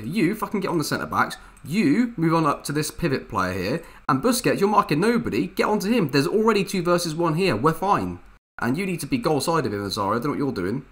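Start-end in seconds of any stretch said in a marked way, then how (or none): 0.0-9.7 a raised, higher coach's bark at his players; coach shouting orders. Retold or imitated. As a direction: bark touchline instructions. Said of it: "in real life, this is what I would say here".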